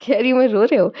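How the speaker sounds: light laugh while correcting herself; a slip that makes her laugh, quick. Real, not acted. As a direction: chuckle through the words.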